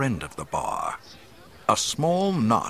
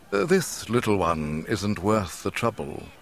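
composed, unhurried intervention; calmly smooth over the trouble. Acted. Kenobi stepping in to defend Luke, calmly. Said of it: "a calm voice said".

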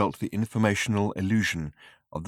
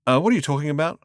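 baffled question; 6 semitones higher, 3 dB louder, faster than usual. Acted. Zaphod baffled by robot.

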